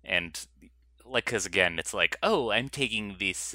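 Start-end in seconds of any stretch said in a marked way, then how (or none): 2.2-3.6 mock Spanish accent. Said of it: "I don't know why I'm giving him that voice".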